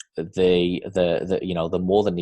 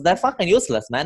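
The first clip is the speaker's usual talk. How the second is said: much higher Zimbabwean accent imitation; funny accent; 10 semitones higher, 4 dB louder than usual. Swim coach mocking swimmers who can't cook, in a high Zimbabwean accent. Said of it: "he used to have this funny accent".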